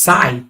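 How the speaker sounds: "scythe" as one drawn-out syllable; deliberate, stretched "scythe"; looked-up pronunciation. Shown as a demonstration. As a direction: say "scythe" slowly with a long "eye" vowel. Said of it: "it's pronounced".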